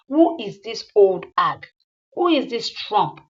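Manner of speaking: loud, scornful demand; angry insult. Acted. Jealous woman insulting her rival, loud and scornful. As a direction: hurl the question as an insult.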